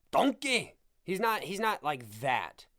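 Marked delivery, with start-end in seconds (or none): 0.1-0.8 higher-pitched mock Scottish ogre exclamation; Shrek. Shown as a demonstration. Fight fan mocking his own bad accent, cartoon ogre impression. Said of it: "sounds a little Shrek-like too".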